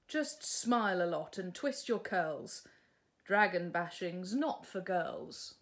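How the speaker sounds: a hint of a bossy prince; lecturing prince. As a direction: talk down to her.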